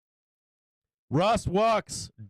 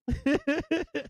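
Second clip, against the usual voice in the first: 1 moved laugh; 8 semitones higher than usual. Real, not acted. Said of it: "I think I'm about to cry".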